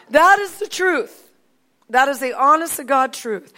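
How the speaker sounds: real, insistent testifying; emphatic affirmation. Real, not acted. Emphatic affirmation after laughing.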